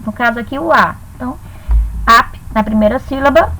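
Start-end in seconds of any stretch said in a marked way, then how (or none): 2.0-2.3 "ap" said alone as one syllable; cut off as a syllable. Shown as a demonstration. Teacher splitting a word for students, syllable by syllable. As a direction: say "ap" by itself, then stop. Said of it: "vão ficar separados".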